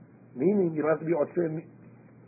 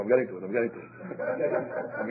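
laughing; 4 semitones lower, much faster than usual. Real, not acted. Speaker laughs at his own joke.

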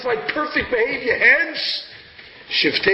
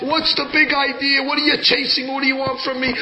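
angry confrontation; 6 semitones higher than usual. Acted. Yaakov shouting back at Lavan, mock angry. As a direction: demand answers, arms waving. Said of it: "he was waving his hands".

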